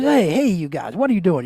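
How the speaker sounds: loosely imitated American accent; bad American accent. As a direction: attempt an American accent, badly. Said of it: "that's a bad American accent".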